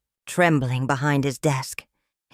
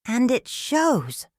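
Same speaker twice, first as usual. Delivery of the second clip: slow, pointed, higher-pitched comeback; cold retort; 7 semitones higher, slower than usual. A narrator's reading. Guest answering host's boast, slow cold retort. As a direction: draw it out coldly. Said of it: "he replied coldly".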